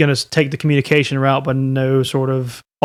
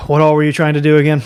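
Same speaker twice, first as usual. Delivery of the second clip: ordinary talk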